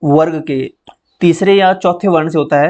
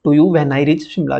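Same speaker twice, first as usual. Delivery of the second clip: slow, deliberate model sentence; careful reading; much slower than usual. Shown as a demonstration. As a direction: read each word slowly for students. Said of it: "जब मैं शिमला पहुँच जाऊँगा". (धीमे, साफ़ उच्चारण में)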